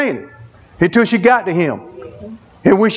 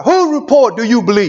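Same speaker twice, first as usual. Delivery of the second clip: shouted challenge; 2 semitones higher than usual. Retold or imitated. Preacher retelling how he challenged his crying wife, shouting. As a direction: call it out like a rebuke. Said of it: "I told her just like this right here".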